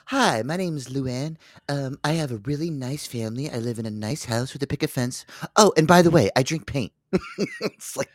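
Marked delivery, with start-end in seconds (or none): 0.1-6.9 lightly voiced homely introduction, paint habit slipped in casually; mock documentary self-introduction; mock casual confession. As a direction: imitate someone chatting about themselves, offhand. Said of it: "I love how they just talking about".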